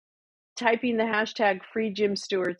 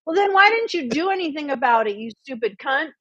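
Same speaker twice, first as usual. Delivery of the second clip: retold angry retort; 6 semitones higher, 3 dB louder than usual. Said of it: "And I'm like".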